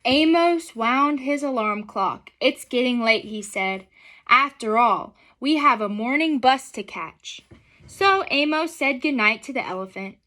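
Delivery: gentle, unhurried storybook reading; reading to children. A narrator's reading. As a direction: read it aloud to a class of kids.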